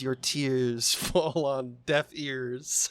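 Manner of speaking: slow, lightly voiced robot; a hint of a cold machine. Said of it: "And then the robot says".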